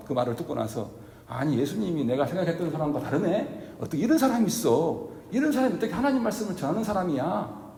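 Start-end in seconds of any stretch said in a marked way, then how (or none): 1.3-7.7 mock indignant. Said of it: "막 대들고 욕을 하고".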